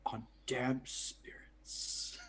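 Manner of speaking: dramatic ninja whisper, slow; Shiro Shinobi whisper. Acted. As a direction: hush it like a sneaky ninja. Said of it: "Shiro Shinobi voice".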